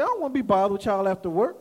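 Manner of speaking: low, quick, blunt refusal; low-pitched matter-of-fact brush-off; raw, unsugared. Retold or imitated. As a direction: repeat it bluntly, no sugarcoating. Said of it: "I ain't sugarcoat".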